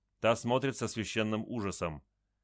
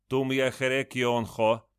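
louder, slow stern demand; stern question; 3 semitones higher, 5 dB louder than usual. A narrator's reading. Chief of the cripples sternly asks why he came, slow and stern. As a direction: ask it like a chieftain judging. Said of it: "строго спрашивает вождь".

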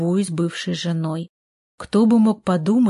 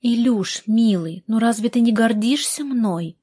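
breathy vintage purr; 3 semitones higher than usual. Acted. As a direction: purr it coaxingly, lightly. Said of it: "промурлыкала она".

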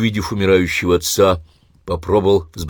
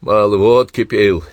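spiteful; 3 semitones higher, 6 dB louder than usual. Acted. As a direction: spit it out with spite. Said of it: "злобно ответил Семён Кузьмич".

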